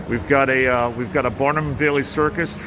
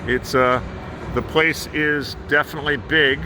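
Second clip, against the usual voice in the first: muffled behind a mask; talking through a cloth mask; through a face mask. Real, not acted. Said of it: "I hope you can hear me through this mask that I'm wearing".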